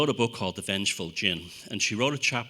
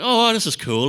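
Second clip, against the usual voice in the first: much higher and louder, thrilled; gleeful high-pitched excitement; delighted; 12 semitones higher, 6 dB louder than usual. Retold or imitated. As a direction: gush like a giddy tourist. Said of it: "And I'm like".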